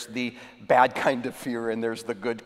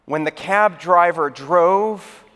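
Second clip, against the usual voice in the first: measured explanation; slower than usual. Acted. Saint Peter delivers the punchline.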